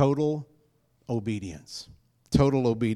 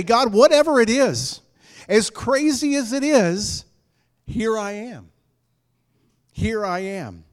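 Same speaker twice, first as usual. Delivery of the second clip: fervent surrender; 6 semitones higher, 5 dB louder than usual. Acted. Preacher voicing a prayer of surrender.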